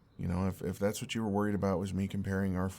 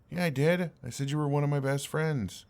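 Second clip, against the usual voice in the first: higher and louder, defending himself; frustrated insistence; 4 semitones higher, 4 dB louder than usual. Acted. Arguing with his upset friend, raised frustrated voice. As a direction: push back hard, hurt that she doubts him.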